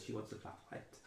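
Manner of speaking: soft unvoiced gossiping whisper. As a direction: whisper it behind your hand. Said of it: "you hear whispers".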